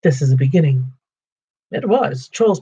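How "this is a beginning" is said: pleased hobbit. Acted. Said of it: "thought he, warming to his new work".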